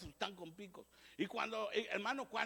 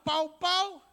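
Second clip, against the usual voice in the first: mock blow sound; 9 semitones higher, 11 dB louder than usual. Preacher mimics a blow.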